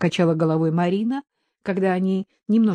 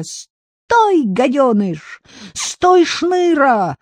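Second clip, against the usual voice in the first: high, loud shrill-free yell after the goat; girl yelling; 7 semitones higher, 4 dB louder, much slower than usual. A narrator's reading. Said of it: "орала она". (девочка орёт на козла)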